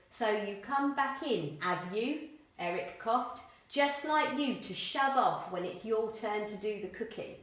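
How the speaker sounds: rough Cockney voice for Eric; lightly voiced Cockney Eric; Cockney accent. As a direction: play Eric as a coughing Cockney man. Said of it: "they have really strong Cockney accents".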